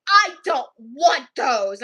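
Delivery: slow, heavy mock-angry refusal; stubborn refusing girl. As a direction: imitate a child refusing, word by word. Retells screaming girl's refusal.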